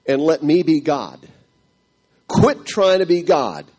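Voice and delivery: voice of God. Retold or imitated. God speaking to the devastated husband at night, stern and loud. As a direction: scold like God rebuking a whiner. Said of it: "the words start flooding to me".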